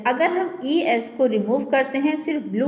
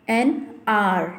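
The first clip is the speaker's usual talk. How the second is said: pron demo; much slower than usual. Shown as a demonstration. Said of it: "इसको हार नहीं पढ़ते हैं".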